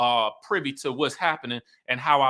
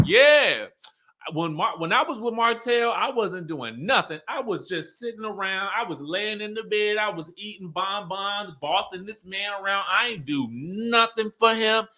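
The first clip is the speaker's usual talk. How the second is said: higher, sassy mock confession; sassy ex-wife, higher voice, mock self-mockery; 5 semitones higher than usual. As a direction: retell it with playful attitude. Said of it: "Melody gets sassy".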